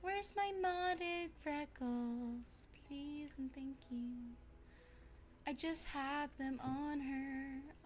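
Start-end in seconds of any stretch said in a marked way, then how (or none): 0.0-4.0 high, very slow drawn-out whine; whiny plea. Real, not acted. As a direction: plead for the lost freckles. Whining for lost mods.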